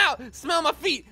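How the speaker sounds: shouted playground taunt. Pretend. Gamer taunting a stranger, bratty shout. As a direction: yell it like a bratty kid.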